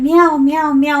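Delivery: high, loud imitated cat cries; crying meows. Storyteller imitating the stray cat running at them, crying. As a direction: mimic a cat crying as it runs over. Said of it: "just crying".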